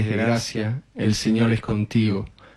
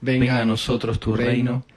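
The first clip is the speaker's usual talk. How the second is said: even, level-toned recited prayer; rosary prayer. Real, not acted. Leader opens the Our Father for the group, recited prayer. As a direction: lead the prayer in a steady, measured cadence.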